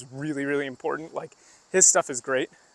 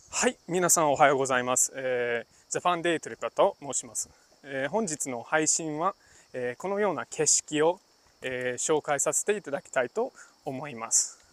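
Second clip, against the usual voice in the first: livestream host greeting viewers, in stiff polite business Japanese. Shown as a demonstration. Streamer opening a broadcast to viewers, formally polite. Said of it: "that was very polite. That was, like, my business Japanese".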